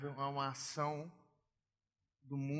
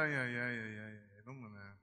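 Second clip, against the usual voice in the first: God's amused sigh; 5 semitones lower than usual. Retold or imitated. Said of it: "Deus tá ali e fala".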